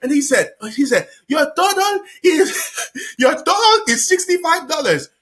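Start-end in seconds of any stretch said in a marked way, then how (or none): 1.3-5.1 lightly voiced cashier; imitating the cashier. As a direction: spell the total out like a cashier. Guy announcing the bill.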